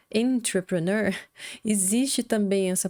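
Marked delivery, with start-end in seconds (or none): 0.1-1.2 entrepreneur begun with an open en- sound; en- start. Shown as a demonstration. Teacher models the sound to watch, careful English. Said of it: "se a gente disser algo parecido com en".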